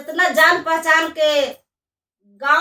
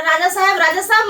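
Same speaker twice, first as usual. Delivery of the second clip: lightly acted, higher-pitched eager call; 4 semitones higher, faster than usual. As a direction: call for the king's attention, pitch lifted a little. चोर राजा को पुकारता है. (हल्की उत्सुक पुकार)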